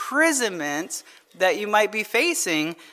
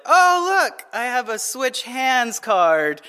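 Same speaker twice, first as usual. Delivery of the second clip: mock surprise; 3 semitones higher, slower than usual. Father imitating his daughter revealing her last card, feigned surprise. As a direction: feign a convenient discovery.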